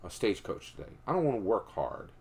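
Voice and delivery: lazy outlaw. Retold or imitated. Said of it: "So Texas Jack goes".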